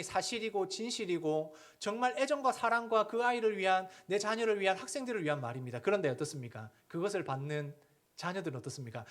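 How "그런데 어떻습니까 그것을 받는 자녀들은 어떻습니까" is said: ordinary talk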